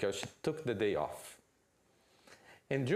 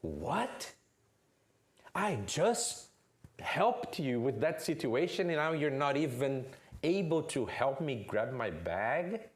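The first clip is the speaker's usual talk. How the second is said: indignant dad; 2 semitones higher than usual. Acted. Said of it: "comes and says what?".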